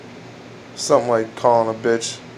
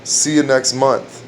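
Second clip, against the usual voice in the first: slow drawn-out punchline; slow vampire joke punchline; slower than usual. Shown as a demonstration. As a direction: hold each word for the pun. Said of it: "lesbian vampire say".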